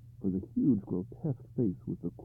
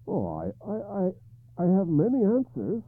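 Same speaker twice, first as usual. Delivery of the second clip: curt; 12 semitones higher, 6 dB louder than usual. Acted. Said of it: "Arthur replied curtly".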